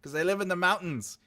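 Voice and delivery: high, loud mock warning from dad; hammed-up fatherly pronouncement; imitating father. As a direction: lay down dad's warning, loud and emphatic. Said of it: "My father used to say".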